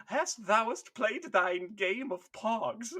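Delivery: put-on slow, pompous old-English voice; hamming up a stiff medieval knight; drawn-out faux Shakespearean question; mock archaic knight. Mock archaic Space Marine speech.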